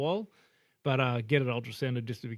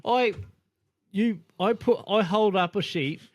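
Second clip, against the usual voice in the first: much higher, louder flustered nurse; mock panicked nurse voice; 7 semitones higher, 7 dB louder than usual. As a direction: stop him in a panic, high-pitched. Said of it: "And she goes".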